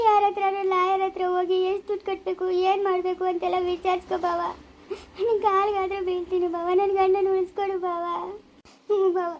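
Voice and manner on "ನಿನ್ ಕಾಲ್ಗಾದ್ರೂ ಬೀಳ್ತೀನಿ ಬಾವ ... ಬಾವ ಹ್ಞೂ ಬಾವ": begging through tears, voice catching; crying plea. Acted. Wife begs her brother-in-law to save her husband, crying. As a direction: sob out the plea for help. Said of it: "ಅಳ್ಬೇಡ ಸುಮ್ನಿರಮ್ಮ".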